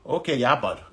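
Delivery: understated Canadian redneck impression; Canadian accent. Teasing Canadian fans with mock Canadian accent. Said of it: "That's you guys, my Canadian".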